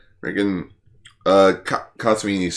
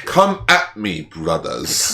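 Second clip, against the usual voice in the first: mock challenge; 4 semitones lower, slower than usual. Kaiju impression, mock challenge.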